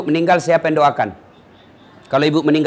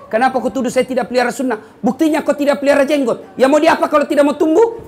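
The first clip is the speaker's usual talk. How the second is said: laughing retort; 6 semitones higher than usual. Retold or imitated. Preacher's retold reply, laughing.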